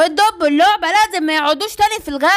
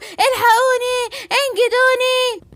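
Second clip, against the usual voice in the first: 2 slow, wailing plea for rescue; 3 cry out as if being carried off; 4 frightened child wailing for help; 1 panicked cry for help; 4 semitones higher, much slower than usual. Acted. Kidnapped giraffe cries for help.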